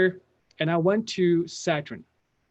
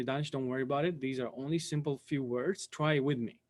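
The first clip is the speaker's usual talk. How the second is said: reassuring; 2 semitones lower, 7 dB quieter than usual. Retold or imitated. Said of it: "She was the first person to tell me".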